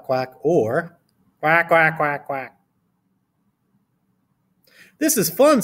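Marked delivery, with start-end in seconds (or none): 1.4-2.6 repeated put-on quacking; duck noise. Shown as a demonstration. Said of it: "You can go quack". 5.0-5.6 very high excited schoolchild; storybook child's high gleeful voice; Charlie. A narrator's reading. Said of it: "said Charlie".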